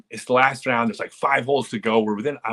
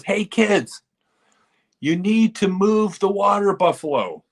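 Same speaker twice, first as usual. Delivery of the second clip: high, loud shout across the course, voice pushed up; calling out to kids; 10 semitones higher, 4 dB louder, slower than usual. Retold or imitated. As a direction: yell to the kids to shift the buffalo. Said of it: "He yells".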